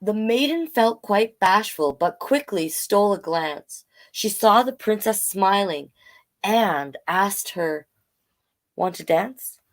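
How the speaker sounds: storybook read-aloud in rhyme; story narration. A narrator's reading. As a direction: tell it gently like a bedtime tale.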